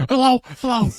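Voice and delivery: high, loud re-enacted yelling into a phone; acting out top-of-the-lungs shouting; screaming. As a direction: scream to be heard over a bad line. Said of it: "just screaming at the top of my lungs".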